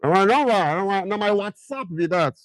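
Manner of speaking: Nigerian Pidgin. Shown as a demonstration. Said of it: "for Naija accent".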